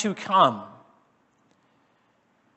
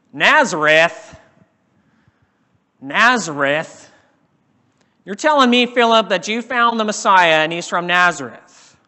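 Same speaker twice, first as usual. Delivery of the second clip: scoffing disbelief; 5 dB louder than usual. Acted. Nathanael scoffs at Philip's news, loud and incredulous. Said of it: "Nathanael let out one big guffaw".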